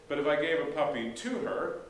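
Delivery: "to" stressed, rising to the end. Shown as a demonstration. Pastor contrasting the example, stressing "to". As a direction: put the weight on "to". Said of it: "just for an example".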